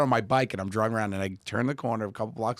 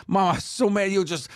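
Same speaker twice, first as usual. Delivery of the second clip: put-on little girl pouting; 10 semitones higher, 3 dB louder than usual. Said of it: "She goes".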